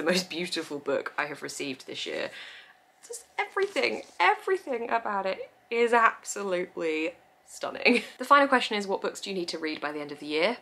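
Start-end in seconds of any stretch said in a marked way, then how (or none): 3.1-8.0 gushing. Real, not acted. Gushing over beautiful book.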